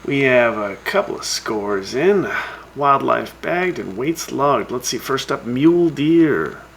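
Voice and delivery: lively radio scoreboard read; radio announcer. Acted. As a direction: read out the scores like a show host. Reads hunting scores on radio.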